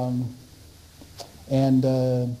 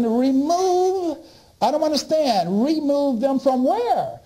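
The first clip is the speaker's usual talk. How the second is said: "Remove?" asked higher, puzzled; baffled question; 5 semitones higher, slower than usual. Retold or imitated. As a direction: echo "Remove?" in groggy confusion. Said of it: "I'm trying to listen".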